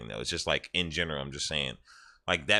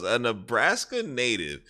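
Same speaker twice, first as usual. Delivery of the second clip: higher-pitched mock disbelief; incredulous retelling; 4 semitones higher than usual. Interrogator doubting a self-proclaimed Nebraska native, incredulous. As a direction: echo the claim as if it's absurd.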